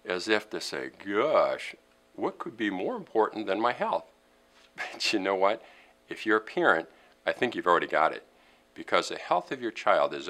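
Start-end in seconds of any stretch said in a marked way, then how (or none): 1.0-4.1 mildly puzzled imagined listener; lightly acted bafflement. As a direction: voice a viewer's mock puzzlement. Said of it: "a lot of you might look puzzled".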